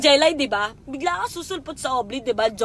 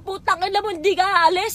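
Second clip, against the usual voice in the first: higher-pitched mock yell at him; angry retold curse; 5 semitones higher than usual. Drunk woman cursing the ex who brought her home, mild mock yell. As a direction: lash out, half-reliving the fight.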